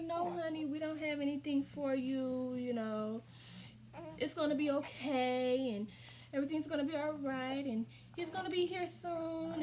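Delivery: reassuring nurse. Retold or imitated. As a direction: lightly voice a nurse comforting a patient. Staff reassuring frightened patient.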